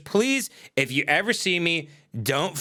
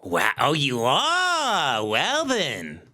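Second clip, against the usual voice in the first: mock delighted questioner; much slower than usual. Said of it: "here's how they answer".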